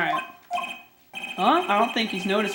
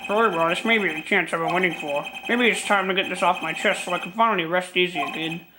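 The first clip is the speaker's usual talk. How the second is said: lightly voiced troubled old lawyer; a hint of a weary elderly gentleman; old man voice. Old attorney character voiced.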